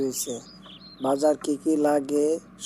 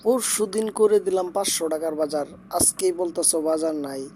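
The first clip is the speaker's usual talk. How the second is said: exasperated arguing; 3 semitones higher than usual. Acted. Husband protests wife's demand.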